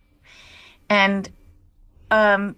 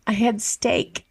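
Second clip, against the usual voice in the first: gasping realization; slower than usual. Retold or imitated. Retold moment of horrified realization.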